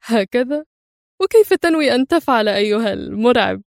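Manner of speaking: a touch of cold mocking amusement; cool sarcasm. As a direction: tease the threat calmly. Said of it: "وهو يقول في برود".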